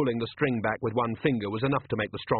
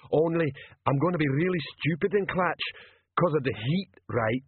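lightly voiced dim troll, worried; a hint of a troll character voice; 4 semitones higher than usual. Troll confiding worries to Vimes, dim and earnest.

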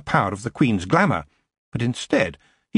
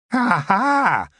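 goblin laugh; 12 semitones higher, 4 dB louder than usual. A narrator's reading. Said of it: "laughed the goblin".

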